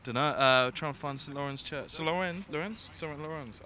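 put-on English with a German accent. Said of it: "you sound very German".

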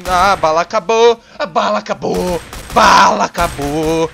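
frustrated yell. Real, not acted. Gamer running out of bullets mid-fight, frustrated yell. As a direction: moan loudly about the empty gun.

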